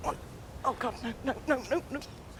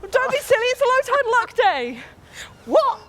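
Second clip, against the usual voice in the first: breathless high yelps; talking while freezing in the sea; in ice cold water; 13 semitones higher, 11 dB louder than usual. Real, not acted.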